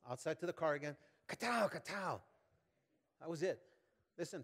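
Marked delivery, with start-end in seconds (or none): 1.3-2.2 imitated smacking sounds.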